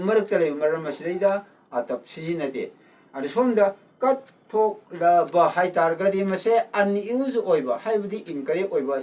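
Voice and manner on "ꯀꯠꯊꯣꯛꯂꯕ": syllable by syllable. Shown as a demonstration. Teacher splits word into syllables.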